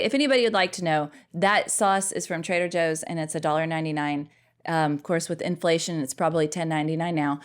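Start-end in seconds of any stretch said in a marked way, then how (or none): 0.0-4.3 quick upbeat product plug; commercial voice. Acted. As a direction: sell it like an ad. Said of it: "Sound like a commercial".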